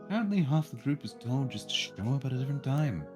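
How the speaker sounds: measured storyteller's read; story narration. A narrator's reading. Narrator telling players about the test day, story narration. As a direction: narrate it clearly, phrase by phrase.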